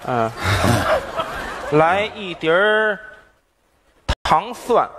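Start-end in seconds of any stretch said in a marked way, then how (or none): 0.4-1.7 crowd laughter. Real, not acted. Audience laughs at the joke.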